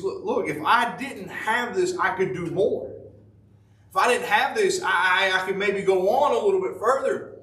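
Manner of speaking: a lightly voiced Paul pleading. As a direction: beg to be rid of it. Paul voiced bargaining with God.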